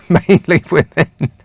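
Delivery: mock emphasis. Real, not acted. Host mocks listener's email phrase.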